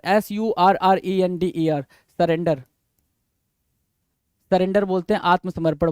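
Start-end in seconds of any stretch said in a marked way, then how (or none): 0.0-1.8 spelling out. Shown as a demonstration.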